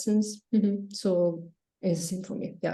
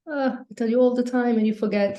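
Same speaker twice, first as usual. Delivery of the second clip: higher-pitched mock exasperation; mock upset; 4 semitones higher than usual. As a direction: imitate a teacher mildly fed up with a student. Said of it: "Julian is upset with me 'cause he said".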